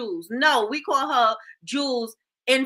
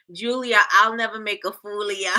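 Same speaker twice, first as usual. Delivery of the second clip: laughing quote. Retold or imitated. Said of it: "That's all I heard every time".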